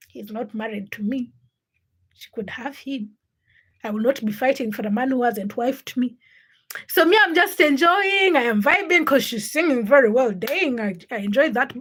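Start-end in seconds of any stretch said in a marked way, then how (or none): 0.1-6.2 low, soft aside to herself; inner thought. Retold or imitated. Streamer recalls her private thought about a rival, soft and low. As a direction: think it through quietly, trailing toward a murmur. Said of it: "in my head, I'm just like".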